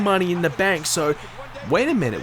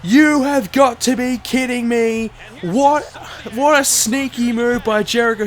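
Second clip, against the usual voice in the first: laughing disbelief; 8 semitones higher, 5 dB louder than usual. Real, not acted. Disbelief after finish.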